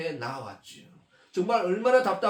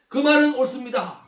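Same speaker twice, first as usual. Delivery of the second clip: pleading emphasis; 4 semitones higher than usual. Acted. Woman to Jesus, insisting earnestly that 말은 is right. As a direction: press 말은 harder in earnest agreement. Woman repeats her agreement, pressing.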